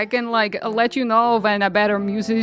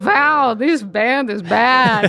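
loud remark; much slower than usual. Acted. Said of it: "I say really loudly".

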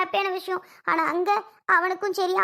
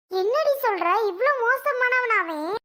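shocked; 4 semitones higher, slower than usual. Acted. Shocked at husband's abortion plan.

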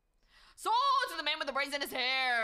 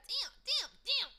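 surprised; 11 semitones higher, slower than usual. Real, not acted. Exclaiming at big donation.

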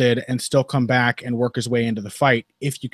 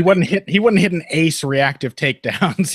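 put-on Australian accent; 4 semitones higher, 3 dB louder than usual. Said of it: "pulled out your Australian accent there".

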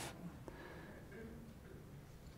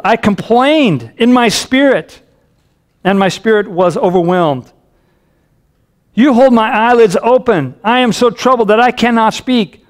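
raised-pitch psalm reading, mildly anguished; psalmist's anguish; 5 semitones higher than usual. Acted. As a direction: read it as a troubled plea to God. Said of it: "Do you hear the anguish".

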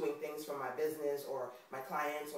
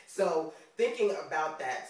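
New York accent; 6 dB louder than usual. Real, not acted. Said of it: "the New York accent comes out sometimes".

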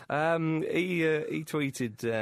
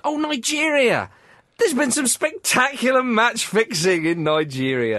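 excited; 8 semitones higher, 9 dB louder, slower than usual. Real, not acted. Announcing a juicy new story.

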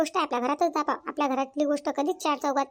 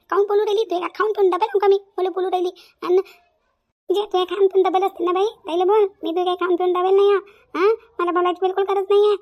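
loud, heated retort in a village quarrel; angry shouting back; 2 semitones higher, 5 dB louder than usual. Acted. Subhadra yells at the neighbour who insulted her, angry shouting. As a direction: hurl it back at her, furious.

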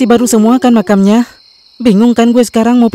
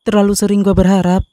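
soft, lower, mock-tragic lines; melodramatic heartbreak; 3 semitones lower, 4 dB quieter than usual. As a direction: deliver it like a sad poem. Menolak dibantu, patah hati. (dengan lirih dan sedih, penuh drama)

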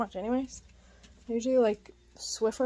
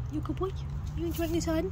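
pet talk; 8 semitones higher, faster than usual. Real, not acted. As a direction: coo at the dog, lifting each question. Baby talk to her dog.

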